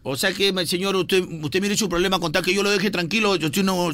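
a lightly voiced indignant cabbie; offended taxi driver. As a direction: play the driver taking offence. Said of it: "Yo voy a actuar como el bruto".

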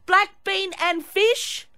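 high, slow, over-enunciated ordering; mocking restaurant-order voice. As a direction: imitate someone spelling out an order for non-English speakers. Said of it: "you speak like this".

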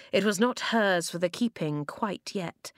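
plain reading voice

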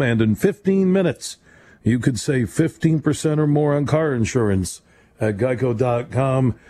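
brisk radio sponsor read; upbeat sponsor announcement. Acted. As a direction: sell the Geico spot like an announcer. Reads sponsor ad.

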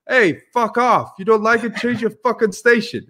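mock aggressive brush-off; Mike Tyson telling off. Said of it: "He goes".

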